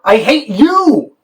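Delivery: high, slow, spat-out hatred; cold hatred. Shown as a demonstration. Director demonstrates subtext for the car keys argument, hateful. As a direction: let each word land with contempt. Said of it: "make an offering of subtext".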